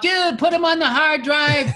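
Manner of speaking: friend's lazy advice, done as a high slow impression; imitating Bob. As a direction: put on a laid-back roommate voice, drawn out. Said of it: "I was living with Bob".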